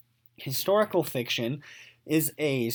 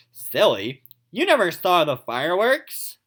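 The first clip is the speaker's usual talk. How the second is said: louder, teasing mother; lightly voiced chiding mother; mother's voice; 5 dB louder than usual. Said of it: "a voice for each person".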